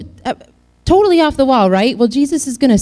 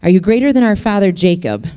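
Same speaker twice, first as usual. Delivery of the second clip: challenging; 4 dB louder than usual. Retold or imitated. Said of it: "she's raising the bar".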